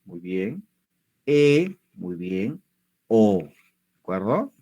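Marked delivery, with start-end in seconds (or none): 1.2-1.8 E said alone, held clearly; vowel pronunciation demo. Shown as a demonstration. Teacher leading learners at home through the vowels, clear E. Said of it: "quiero que pronuncies cada una de estas vocales". 3.1-3.4 O said alone, held clearly; vowel pronunciation demo. Shown as a demonstration. Teacher leading learners at home through the vowels, clear O. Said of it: "quiero que pronuncies cada una de estas vocales".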